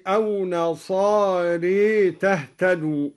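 نصاري ending in a long e instead of a; imala after ra. Shown as a demonstration. Teacher recites the example, imala turning the end of نصاري to long e. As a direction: tilt the last vowel of نصاري to "ree". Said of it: "وأمال الألف بعد الراء".

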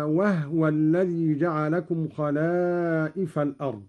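وهو said as wahwa; measured verse, وهو in two syllables wah-wa; still ha. Shown as a demonstration. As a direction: recite وهو with no vowel after ha. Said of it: "وكذلك قوله تعالى".

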